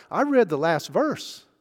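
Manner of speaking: leaning on read and last verse; emphasis. Real, not acted. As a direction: hit read, let the line rise. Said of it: "I'm saying that with emphasis".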